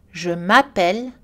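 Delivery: "Je m'appelle" with an energetic a in ma; "Je m'appelle", open a, rising; clear French A. Shown as a demonstration. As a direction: give the a of "m'appelle" full clarity. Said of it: "avec de l'énergie et de la clarté".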